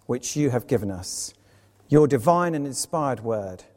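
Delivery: measured, reverent congregational prayer; public prayer. Real, not acted.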